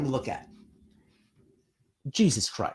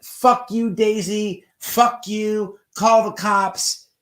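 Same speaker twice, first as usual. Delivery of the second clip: mock tough-guy outburst, higher and louder; acting tough; 6 semitones higher, 6 dB louder, slower than usual. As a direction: imitate a man hurling abuse, pitched up. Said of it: "He's acting all tough".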